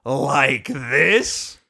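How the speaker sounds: low, sly question; mock sweetly like a villain; taunting Discord voice.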